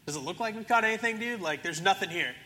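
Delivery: lightly acted annoyed comeback; mock exasperation. Disciples answering the stranger on shore, mock exasperated.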